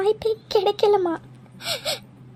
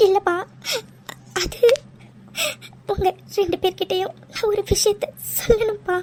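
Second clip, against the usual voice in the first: tearful confession. Acted. Daughter confessing tearfully to parents.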